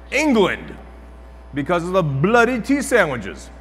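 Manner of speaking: high, punchy mock British that could pass for Australian; British accent. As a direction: put on a bad, exaggerated British accent. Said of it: "That's my best freaking British accent ever".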